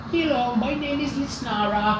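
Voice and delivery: high, light fairy greeting; tiny fairy. Acted. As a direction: introduce yourself in a high little fairy voice. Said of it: "looks like a tiny human".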